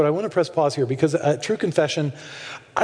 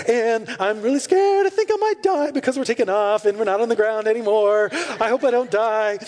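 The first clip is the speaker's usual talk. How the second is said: higher, mock-frightened child's voice; mock scared little girl; 3 semitones higher than usual. Pastor imitates a girl scared on the plane, higher and mock-frightened. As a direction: play a little girl pretending to fear takeoff. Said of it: "and she's like".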